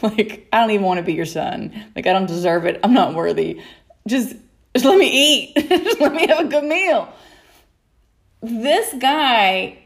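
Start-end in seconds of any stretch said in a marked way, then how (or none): 0.5-7.1 pleading son. Retold or imitated. Voicing prodigal son begging food.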